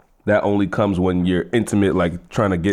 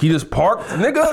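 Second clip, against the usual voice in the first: laughing; 10 semitones higher than usual. Retold or imitated. Retold warning, laughing.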